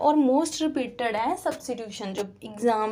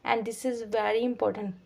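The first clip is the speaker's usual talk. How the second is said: slow emphatic statement; 4 dB quieter, much slower than usual. Shown as a demonstration. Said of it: "teacher stresses importance".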